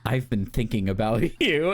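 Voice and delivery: mock tender, lightly voiced fan-fiction line; that cadence. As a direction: lightly imitate a swoony role-play reply. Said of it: "in that font, in the cadence".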